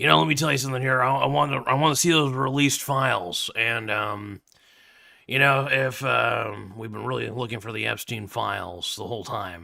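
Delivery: hack put-on radio-host voice. You noticed you just sounded like him, so carry on for fun in a hack Alex Jones impression. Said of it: "It's a hack impression for sure".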